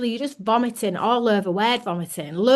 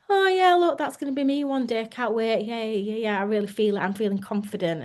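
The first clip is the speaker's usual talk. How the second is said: bright mock excitement that fades; fake confidence. Lying about feeling confident.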